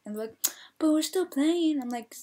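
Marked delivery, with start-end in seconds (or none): 0.8-1.8 high, loud drawn-out complaint; protesting in a raised, slowed voice; mock protest. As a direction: imitate an objecting player, stretching the words. Imitating players protesting the foul.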